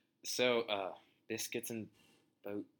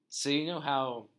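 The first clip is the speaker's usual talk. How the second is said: higher, louder opening; 7 semitones higher, 9 dB louder than usual. Acted. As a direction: burst in with news. Boss breaking bad news.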